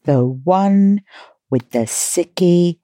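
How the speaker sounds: slow, drawn-out title read; episode title announcement. Acted. Podcast host announces the episode's silly title, slow announcer style. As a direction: stretch out each word of the title.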